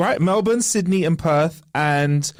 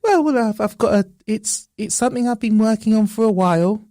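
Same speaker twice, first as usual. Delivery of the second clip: nervous intern voice. Pretend. Intern character pitching idea.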